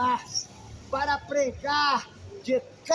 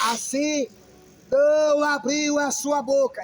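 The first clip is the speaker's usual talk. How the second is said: leitura solene; slower than usual. Acted. Reads scripture aloud solemnly.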